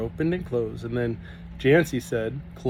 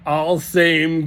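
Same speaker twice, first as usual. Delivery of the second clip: giggling; 4 semitones higher, 6 dB louder than usual. A narrator's reading. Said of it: "giggled Kate".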